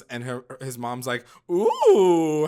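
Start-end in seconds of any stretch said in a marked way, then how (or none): 1.5-2.5 higher, louder delighted ooh; imitating a mom hearing news; mock delighted ooh. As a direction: coo it like an excited mom. Voicing mom's delight.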